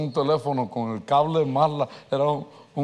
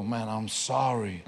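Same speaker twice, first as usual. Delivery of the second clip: crying apology; 4 semitones lower, 8 dB quieter, slower than usual. Retold or imitated. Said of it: "comenzó a llorar por el teléfono".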